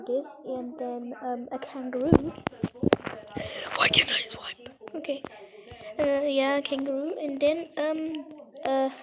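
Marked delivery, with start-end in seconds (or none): 3.8-5.2 whisper. Real, not acted. Muttering at the game.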